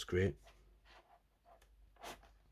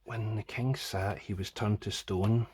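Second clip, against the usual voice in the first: slow reading aloud; slower than usual. Shown as a demonstration. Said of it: "where is it?".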